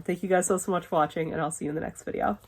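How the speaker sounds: hoarse, fading voice giving out; losing voice. Real, not acted. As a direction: push words through a worn-out voice. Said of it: "you could hear I was starting to lose my voice".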